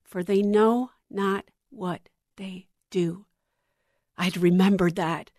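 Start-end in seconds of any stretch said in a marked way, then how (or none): 0.0-3.2 soft, slow, calm Jesus voice; clear, calm voice. Retold or imitated. Jesus forgiving from the cross, calm and clear. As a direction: deliver it serenely and unhurried. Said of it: "in the clearest, calmest voice".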